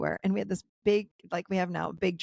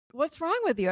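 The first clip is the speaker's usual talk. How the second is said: retold husband's yelling; 7 semitones higher than usual. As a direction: imitate the husband snapping at his wife. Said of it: "And he's yelling at".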